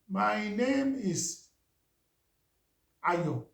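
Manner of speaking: very slow, dragged words with long gaps; old strong accent. Shown as a demonstration. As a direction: drag out each word like a halting newcomer to English. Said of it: "Let me try and imitate myself".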